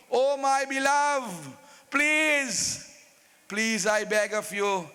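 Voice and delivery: long drawn-out pleas, sinking at the end; begging. Acted. King pleading with his angry queen, begging. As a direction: implore the beloved with stretched words.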